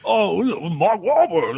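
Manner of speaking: slow, drawn-out swoon over a name; mock admiring sigh of a fan; mock fawning. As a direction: gush over the star, slow and high. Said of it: "And I'm not saying that as, like".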